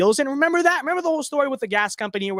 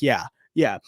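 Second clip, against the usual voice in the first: a mock sarcastic voice for the other side; mocking commenter voice. Streamer to viewers, mimicking a smug commenter with a sneer. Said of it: "It's like".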